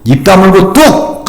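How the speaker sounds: mock a strict parent hushing a crying child; a touch of an old-school parent snapping at tears; scolding parent. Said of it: "우리 부모님이 얘기했던 말".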